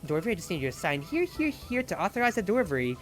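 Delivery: fast, lightly voiced delivery patter; delivery worker spiel. Cosplayer in character explaining the delivery form, in quick courier patter. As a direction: rattle off the paperwork like a courier. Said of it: "clipboard that was like".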